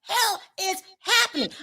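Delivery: high, laughing through the words. Real, not acted. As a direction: crack up while asking. Laughing at the joke.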